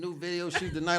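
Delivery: lightly voiced young rapper announcing his plans; mock the young boy's promo talk, understated. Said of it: "That's the young boy voice".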